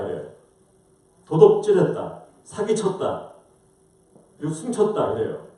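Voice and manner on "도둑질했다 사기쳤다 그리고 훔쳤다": imitating angry accusations, starting loud and high; angry God. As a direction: count off the crimes as an angered God. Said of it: "그렇게 화가 나셨어요". (화난 듯 죄목을 나열하는 흉내)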